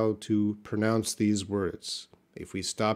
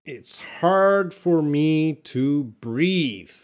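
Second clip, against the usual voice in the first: slow, careful reading; slow example read; 4 semitones higher, much slower than usual. Shown as a demonstration. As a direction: read it slowly for learners. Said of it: "Let's take a look at our examples".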